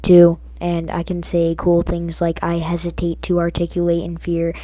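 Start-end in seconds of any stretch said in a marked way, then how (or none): 2.4-4.5 loud stiff robotic delivery. Shown as a demonstration. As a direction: recite it like a pompous robot. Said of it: "I can talk like a robot".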